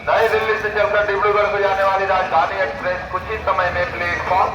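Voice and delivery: railway PA announcement. Real, not acted. Railway station loudspeaker announcement.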